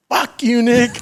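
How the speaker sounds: high-pitched, punched retold outburst; mock angry comeback. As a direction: throw it back high, in mock outrage. Retells his comeback to Nick.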